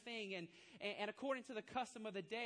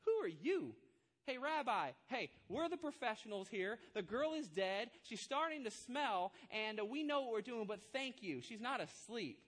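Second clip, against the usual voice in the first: indignant professional mourners; 4 dB louder than usual. Retold or imitated. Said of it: "I always picture the professional mourners kinda going".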